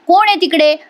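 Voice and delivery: lightly acted shout toward the door; calling out loud. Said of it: "Nandini जोरात ओरडते".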